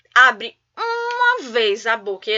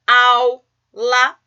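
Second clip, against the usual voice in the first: "aula" louder, broken into au and la; split into syllables; 7 dB louder than usual. Shown as a demonstration. Teacher showing a vowel-only syllable, "aula" split in two. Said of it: "uma sílaba somente com vogais".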